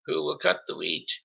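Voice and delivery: high, bright-pitched call across the yard; brisk call. A narrator's reading. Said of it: "calling briskly".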